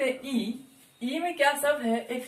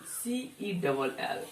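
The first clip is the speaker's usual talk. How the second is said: slow spelling out; 3 semitones lower, 8 dB quieter, much slower than usual. Shown as a demonstration. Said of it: "meaning लिख रहे हैं सेल".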